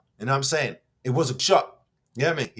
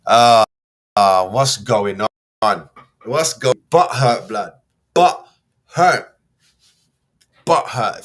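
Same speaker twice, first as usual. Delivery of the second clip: mocking taunt; 10 dB louder, slower than usual. Real, not acted. Mocking rival fans as butthurt.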